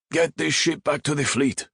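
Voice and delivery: high, loud furious order; captain roaring at protesting sailors; roared command. Acted. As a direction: roar it so the men flinch. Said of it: "Raffe roared".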